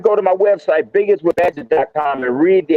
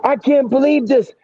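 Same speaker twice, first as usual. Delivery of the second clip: high-pitched imitation of a panicked friend; imitating scared, breathless; 8 semitones higher than usual. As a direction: act out his stunned alarm, pitched way up. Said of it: "he's scared".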